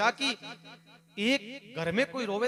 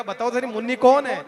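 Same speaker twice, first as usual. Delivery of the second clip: demanding; 3 semitones higher, 8 dB louder than usual. Acted. King demands who Munni is.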